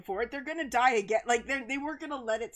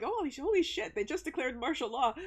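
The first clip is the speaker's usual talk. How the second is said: stunned realisation; 4 semitones higher than usual. Retold or imitated. Realising it is real.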